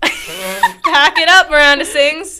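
loud. Real, not acted. Mock-loud reaction.

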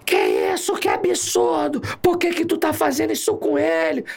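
high, drawn-out indignant cries; imitated woman yelling. Officer mimics a lady protesting the search, indignant high shouting. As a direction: scold in a high mock shriek. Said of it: "começou a gritar com a gente".

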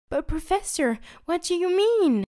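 high, loud, impatient squeak; impatient Chubby. Acted. Chubby pressing the professor, losing patience. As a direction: push him for an answer, losing patience. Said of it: "slowly losing patience".

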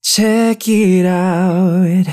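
breathy and winded from the stairs; out of breath, short of air. Real, not acted. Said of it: "nice and breathy".

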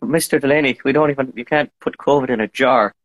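put-on Irish accent. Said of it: "whipped out the Irish accent".

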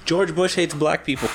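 half-hearted quote of Kanye's outburst. Retold or imitated. To his friend, a mild Kanye telethon quote. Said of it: "my first introduction to Kanye".

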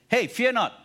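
high, loud call to a neighbour; loud encouragement. Shown as a demonstration. Preacher models telling a neighbour, loud call. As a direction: say it boldly to the person next to you. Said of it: "look at someone and tell the person this".

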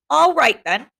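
mean it as a warning; a touch of menace; menacing. Acted. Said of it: "in tones of deep meaning and menace".

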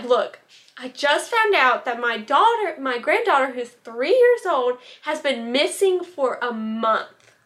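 panicked. Retold or imitated. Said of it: "you can tell she's freaking out".

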